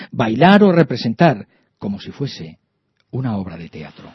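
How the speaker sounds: put-on gentle read-aloud for children. A narrator's reading. Reads the book's prose text.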